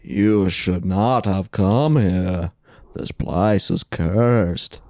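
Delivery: slow, low ghostly warning; a lightly voiced ghost, slow and low; unearthly voice. Ghost warns the podcasters.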